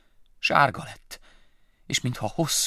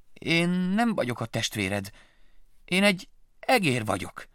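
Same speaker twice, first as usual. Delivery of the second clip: slow, higher mouse voice; insisting mouse; 7 semitones higher than usual. Acted. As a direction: correct the bat firmly. Willy corrects the bat.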